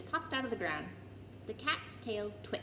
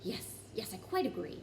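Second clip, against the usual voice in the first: heart sinking; 4 dB quieter than usual. Acted. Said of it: "his heart sinking horribly".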